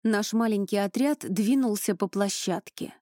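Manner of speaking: plain reading voice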